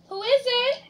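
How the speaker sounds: high, shrill storybook granny voice; shrill grandma. A narrator's reading. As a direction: pitch it way up, calling out a question as Grandma. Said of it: "he heard in a shrill voice".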